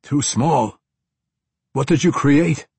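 loud, high, alarmed questions; aghast disbelief. A narrator's reading. Uncle shocked by the woman's answer, aghast disbelief. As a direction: echo it back in alarm. Shocked man, seeming to gasp for breath.

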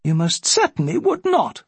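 high-pitched, indignant aunt; snapped refusal. A narrator's reading. Aunt forbidding the captain any commitment, snapped. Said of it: "Sarah Lovell had snapped".

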